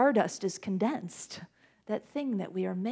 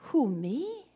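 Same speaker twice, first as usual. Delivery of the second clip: startled Moses; 5 semitones higher, 4 dB quieter, slower than usual. Acted. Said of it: "Moses is like".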